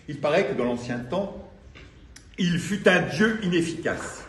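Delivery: declaimed poem with deliberate pauses between phrases; measured spoken-word reading; poetry recital. Acted. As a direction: recite phrase by phrase, swelling and dropping away. Reads own poem aloud to audience.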